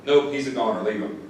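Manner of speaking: retold matter-of-fact dismissal; dismissive verdict. Firefighter telling officer to abandon the trapped man, dismissive. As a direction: write someone off, falling at the end. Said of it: "one of the firefighters looks at me and is like".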